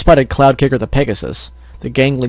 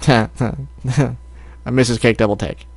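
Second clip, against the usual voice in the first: laughing; 5 dB quieter than usual. Real, not acted.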